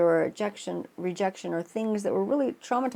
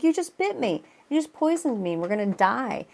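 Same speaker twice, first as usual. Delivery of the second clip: panicked frog; 3 semitones higher than usual. Retold or imitated. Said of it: "And he's like".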